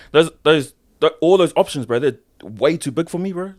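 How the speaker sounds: giddy disbelief at huge options; laughing overwhelmed. Real, not acted. Overwhelmed by big offer.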